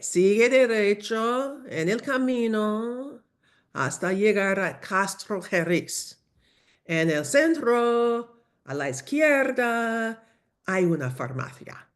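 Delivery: obligingly slow local giving directions. Acted. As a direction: stretch each phrase for a struggling learner. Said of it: "despacio, por favor".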